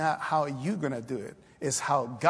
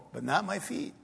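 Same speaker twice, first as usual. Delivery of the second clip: higher, softer aside after the cheering; mock reluctance; 4 semitones higher, 4 dB quieter than usual. Churchgoer praises others but excuses himself, mock reluctant. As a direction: back out lightly, voice lifting. Acted churchgoer backing out of going.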